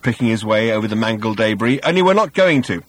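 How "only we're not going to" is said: raised, high-pitched call; shouted. A narrator's reading. Ford turning down the partygoers, shouted. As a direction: call out the blunt refusal loudly. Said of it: "shouted Ford".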